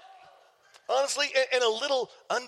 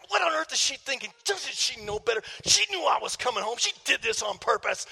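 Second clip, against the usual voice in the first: mildly acted indignant rant; mad. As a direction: retell an irritated inner rant. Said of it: "I'm mad, and I'm like".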